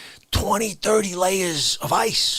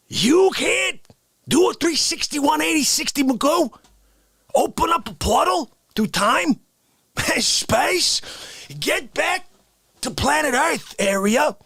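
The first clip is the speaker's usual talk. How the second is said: higher, mock indignant rant; 5 semitones higher than usual. Character scolding cohost for skipping respects, mock indignant. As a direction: lay into him with mock outrage. How Dare You Guy outrage.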